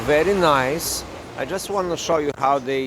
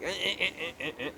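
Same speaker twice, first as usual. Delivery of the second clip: soft, higher mock stammering noises; quiet mocking "eh, eh, eh"; imitating dithering; 6 semitones higher, 9 dB quieter, much faster than usual. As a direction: mimic someone stalling with little ehs. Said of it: "Don't be like".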